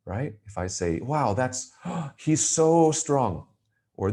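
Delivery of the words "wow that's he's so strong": high, slow, amazed with a gasp; gasp, then marvel at how strong he is; wide-eyed wonder, so stretched out. Shown as a demonstration. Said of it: "That is a way to emphasize".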